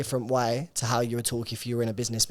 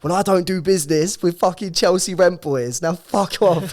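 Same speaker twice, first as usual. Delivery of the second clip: mock angry caller; 7 semitones higher, 8 dB louder than usual. Rude caller hangs up angrily.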